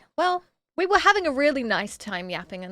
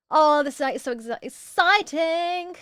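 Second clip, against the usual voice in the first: high, drawn-out excitement; gushing excitement; 3 semitones higher, slower than usual. Real, not acted. Streamer gushes to chat about dinner, excited. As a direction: stretch it out with glee. Gushing over salmon for tea.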